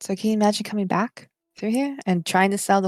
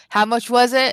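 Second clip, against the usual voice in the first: loud, half-shouted call-out; 6 dB louder than usual. Voicing a man answering the group's question, yelling. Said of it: "him kind of yelling".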